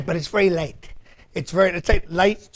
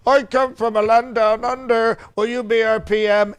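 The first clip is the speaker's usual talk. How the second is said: put-on a half-hearted Australian accent, a bit higher; bad Australian accent; 4 semitones higher than usual. Trump impersonator quoting Australians begging him, bad Australian accent. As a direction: botch an Australian accent on purpose. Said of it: "I can't do an Australian accent".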